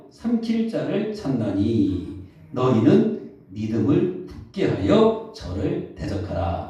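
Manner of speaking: slow, deliberate scripture recitation; measured Bible reading from the pulpit. Real, not acted. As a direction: read the verse out slowly and solemnly, phrase by phrase. Reads the Bible verse aloud.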